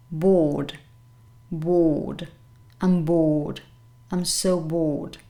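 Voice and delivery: bored with no R, long O; bored as BAWD, R left out; careful model of bored with silent R. Shown as a demonstration. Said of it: "you don't pronounce this letter".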